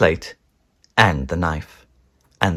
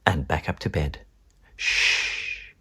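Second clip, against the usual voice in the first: softer, creeping whisper; hushed; 3 semitones lower, 7 dB quieter than usual. Acted. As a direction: tiptoe in your voice. Creeping back to bed.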